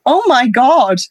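mock-stunned exclamation; amazed reaction. Hearing of a girl's half Norwegian, half Zimbabwean mix, amazed. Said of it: "And I went".

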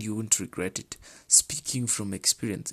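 whispered, almost silent; secret-sharing whisper. Shown as a demonstration. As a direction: drop to a hushed whisper to underline it. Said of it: "she's emphasizing on speaking".

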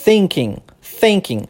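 thinking with a clear voiceless th, not F; careful thinking. Shown as a demonstration. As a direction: start thinking with the tongue between the teeth. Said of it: "vou falar a palavra thinking".

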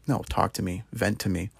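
soft, tender invitation; gentle invitation. Pretend. God inviting a struggling believer to talk, softly tender. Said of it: "he's saying, like".

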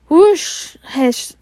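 high urgent shush; sharp hushing. Acted. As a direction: hush him fast and sharp. McGonagall hushing a sobbing Hagrid.

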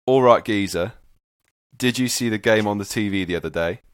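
matey London geezer voice; London geezer accent. Shown as a demonstration. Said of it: "gonna go right London geezer".

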